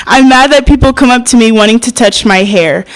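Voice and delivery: performed poetry with deliberate pauses; spoken-word poem. Acted. Poet answering the angry black woman stereotype, spoken-word delivery. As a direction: recite it to the room with pointed emphasis.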